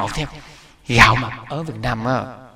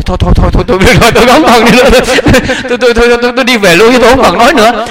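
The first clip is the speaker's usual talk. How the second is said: overwhelmed with joy; 8 semitones higher, 7 dB louder, faster than usual. Retold or imitated. Overjoyed retelling of the relief.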